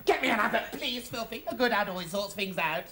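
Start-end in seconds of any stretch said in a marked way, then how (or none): 0.1-1.4 insistent plea. Acted. Repeats demand as a plea.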